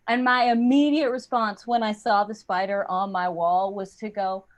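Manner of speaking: ordinary talk, nothing marked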